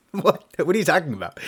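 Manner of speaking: high, loud, incredulous what; hammed-up astonished lawyer; mock disbelief. His shocked reply, retold.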